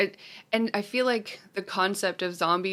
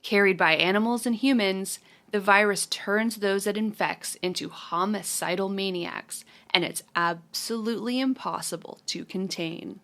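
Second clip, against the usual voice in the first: reading a synopsis. Shown as a demonstration. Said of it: "the synopsis from Letterboxd".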